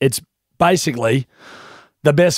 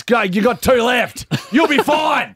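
excited; 7 semitones higher than usual. Acted. Mock cheering after gift.

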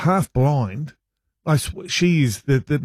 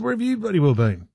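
higher, exasperated retold demand; annoyed outburst; 6 semitones higher than usual. Husband to wife after she skipped his calls, annoyed. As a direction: let it slip out cross, then regret it. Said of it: "Oh, I didn't say it like that".

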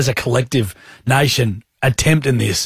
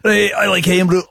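put-on Scottish accent; 4 semitones higher than usual. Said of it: "doing Scottish accents before".

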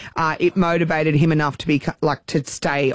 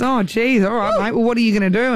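amused builder; 6 semitones higher than usual. Retold or imitated. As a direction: play the bemused bloke humouring the kid. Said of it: "And Simon says".

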